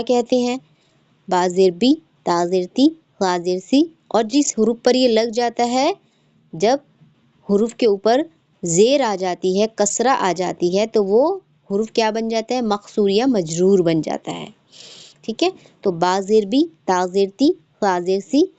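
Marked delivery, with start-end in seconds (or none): 1.3-3.9 recitation drill, final "बी", "ती", "सी" kept brief; short unstretched vowels. Shown as a demonstration. Teacher showing students how to read zer, short unstretched vowels. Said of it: "ज़ेर को भी हम ऐसे ही पढ़ेंगे". 15.9-18.5 spelling drill with "बी", "ती", "सी" kept brief; short quick vowels. Shown as a demonstration. Teacher demonstrating zer to students, short quick vowels. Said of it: "हम इसको जल्दी से अदा करेंगे".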